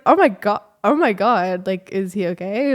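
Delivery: imitating a friend's shocked worry; alarmed gasp. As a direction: gush with shocked concern. Friend reacts to homeless cyclist story.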